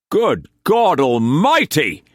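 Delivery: high, loud exclamation; shocked outcry. A narrator's reading. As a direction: gasp it at the bill. Shocked at bill.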